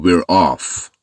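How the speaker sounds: slow, careful drill of the phrase; slow model reading. Shown as a demonstration. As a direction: build the sentence up slowly for learners. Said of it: "زدیم بیرون".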